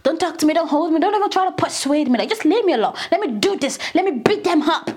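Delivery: quick, mildly worked-up protest; half-serious angry rant; mock anger. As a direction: imitate someone angry, rattling off warnings. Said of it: "when someone is angry".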